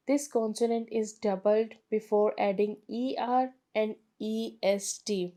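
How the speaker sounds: slow, careful textbook reading; reading the rule aloud. Shown as a demonstration. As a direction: read the rule out slowly for students. Reads rule from book slowly. (धीमी किताबी पढ़ाई)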